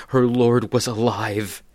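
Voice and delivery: slow, loud and jubilant; booming slow proclamation; triumphant joy. A narrator's reading. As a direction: proclaim it like the best news ever. Mary realizing he lives.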